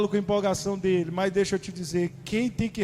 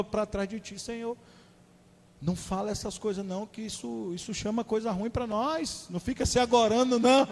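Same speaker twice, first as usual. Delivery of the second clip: mock-worried Peter; 5 semitones higher than usual. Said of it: "vem Pedro e lá chama Jesus no canto e falou".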